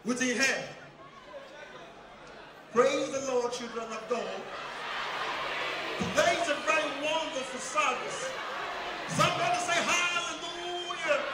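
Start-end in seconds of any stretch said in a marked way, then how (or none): 2.7-11.2 preachy pastor voice building to a shout; pastor impression. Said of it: "which pastor they sound like this".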